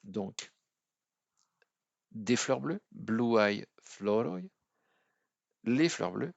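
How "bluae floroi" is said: bluae floroi stretched slowly, the J as a clear I glide; teacher spelling out bluae floroi; slow demo. Shown as a demonstration. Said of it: "la lettre J qui va se prononcer avec le son I".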